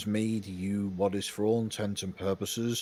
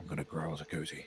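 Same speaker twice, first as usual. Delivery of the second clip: mumbling quietly under breath, lower and quieter; 4 semitones lower, 9 dB quieter than usual. Voicing a character who wanders off and mutters: muttering under his breath. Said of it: "mutters under his breath".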